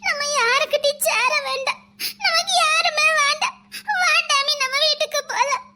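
tearful pleading to the dog, voice wet with tears; hurt girl weeping as she walks off; crying. Acted. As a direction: cry through the words, wanting to go home. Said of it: "எதுக்கு அழுறா?".

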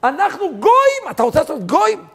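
high, loud fervent cry; preaching at full force. Acted. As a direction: cry out the people's plea. (הטפה בלהט, זעקה רמה וגבוהה)

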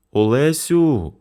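sick mother calling her eldest. A narrator's reading. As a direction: call your daughter weakly from the sickbed. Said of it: "покликала вона старшу".

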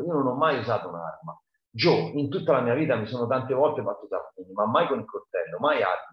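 lightly voiced frantic pleading; a hint of a scared man begging his friend; desperate Muff. Muff Potter pleading with Joe to keep silent, lightly voiced and urgent.

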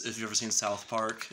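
normal talking voice

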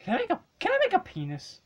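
excited. Real, not acted. Excited gaming chatter.

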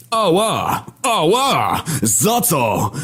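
very high, squealing yelps; pained yelling. A narrator's reading. War being pelted with blows, yelling in pain. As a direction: yelp in protest in a high put-on voice. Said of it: "zaczął się drzeć".

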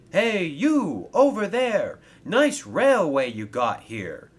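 loud, high holler across the yard; calling out. Acted. Annie hails the unusual engine over there, calling out. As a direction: hail a stranger from afar.

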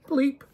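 a high, comic "bleep"; a spoken censor bleep; mock bleep. Shown as a demonstration. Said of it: "that I made instead of".

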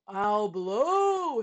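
loud, bold boast; shouted. A narrator's reading. Trumpeter vowing to sound the alarm, shouting. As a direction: shout it out the window. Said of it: "he shouted".

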